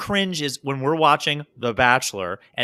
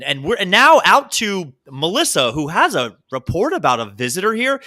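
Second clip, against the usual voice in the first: higher, louder reporter voice; field reporter voice; 4 semitones higher, 4 dB louder than usual. Retold or imitated. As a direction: mimic a stadium field reporter. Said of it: "she has a microphone".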